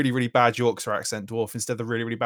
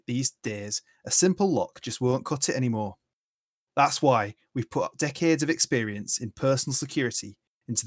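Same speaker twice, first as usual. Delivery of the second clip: smooth in-world ad read; fantasy security advert voiceover. Acted. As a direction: sell it like a radio commercial. Reads a mock security advert.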